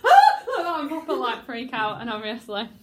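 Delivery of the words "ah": sudden mock-frightened "Ah!"; startled gasp. Shown as a demonstration. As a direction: demonstrate a comic shock. Acting character startled into fright.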